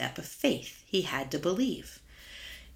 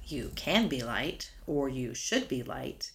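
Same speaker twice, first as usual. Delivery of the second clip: "You can be light" and "You should be light" spoken slowly and softer; slow, softer contrast. Shown as a demonstration. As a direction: weigh each option gently. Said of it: "The verse does not say".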